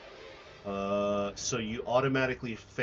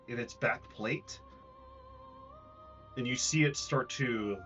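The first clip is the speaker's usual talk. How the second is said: building suspense, some lines faster; dramatic scene narration. A narrator's reading. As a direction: narrate the monster's attack. GM describes the explosion.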